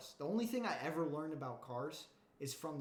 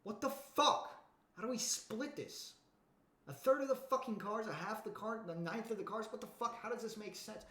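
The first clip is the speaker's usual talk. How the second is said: outraged brothers; 6 semitones higher than usual. Retold or imitated. Heirs baffled by the will, high outraged disbelief. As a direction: squawk it out like confused heirs. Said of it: "They're like".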